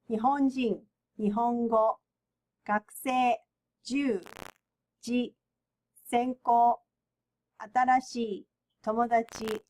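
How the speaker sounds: Japanese words from "日本人" to "友達" on an even pitch; flat pronunciation. Shown as a demonstration. Teacher modelling flat Japanese for learners, "日本人" to "友達" evenly pitched. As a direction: read each word from "日本人" to "友達" level, with no stressed syllable. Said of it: "we have to pronounce flat".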